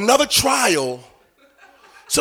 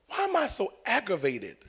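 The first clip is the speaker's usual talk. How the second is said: subdued question; 9 dB quieter than usual. Retold or imitated. Driver praying in the car, subdued soft plea. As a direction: ask it quietly, almost to yourself.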